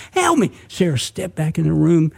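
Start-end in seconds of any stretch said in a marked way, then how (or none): 0.1-0.5 very high-pitched pleading cries; hollering for help. A narrator's reading. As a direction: act out a wounded man hollering. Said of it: "Somebody was hollering".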